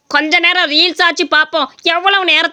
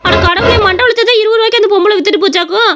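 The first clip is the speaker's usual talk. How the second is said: shocked dismay; 3 semitones higher than usual. Acted. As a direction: cry out in disbelief, then vow revenge. Wife shocked at being cheated.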